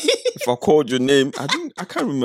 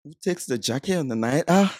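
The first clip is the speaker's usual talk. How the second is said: half-hearted Mancunian try; attempted Manchester accent; 4 dB quieter than usual. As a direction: copy the Manchester line, unsure. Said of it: "I can try this".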